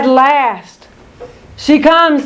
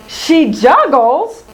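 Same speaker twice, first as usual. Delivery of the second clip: puzzled; 2 semitones higher, slower than usual. Acted. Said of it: "cried Penelope".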